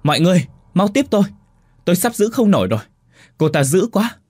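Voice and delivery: high, loud, fast yell for help; straining young man screaming for help; panicked shout while holding on; desperate shout. Acted. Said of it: "hét lớn".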